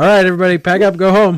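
loud, high-pitched mock shout.

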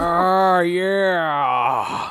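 high, drawn-out blissful moan. Retelling a scene where he presses a cross into his stomach: imitating a moan of pleasure. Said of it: "He moans in pleasure".

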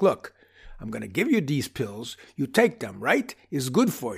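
put-on wise-guy voice. Imagining a doctor named Vinny handing a patient pills, Vinny wise-guy voice. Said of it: "kind of a wise guy gravitas".

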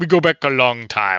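rough put-on character voice. Acting out a meeting with Ming-Na Wen, speaker attempts a Boba Fett voice. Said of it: "I can't really do the Boba Fett voice, but something like that".

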